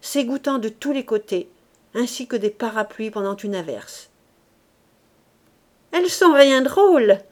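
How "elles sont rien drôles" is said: hoarse. A narrator's reading. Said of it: "dit la voix enrouée d'une laveuse".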